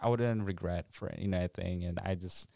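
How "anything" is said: ordinary talk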